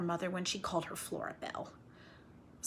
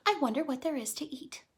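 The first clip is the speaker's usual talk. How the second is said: squirrel voice; 6 semitones higher, faster than usual. Acted. Voicing the squirrel's thought.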